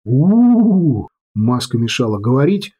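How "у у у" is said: muffled howl through a mask; muffled excited howl. Acted. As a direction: howl with glee behind a mask. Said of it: "возбуждённый Шо глухо орал".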